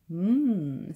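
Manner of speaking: long, loud, pleased "mmm"; contented hum. A narrator's reading. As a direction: hum with pampered enjoyment. Louise enjoys having toes rubbed.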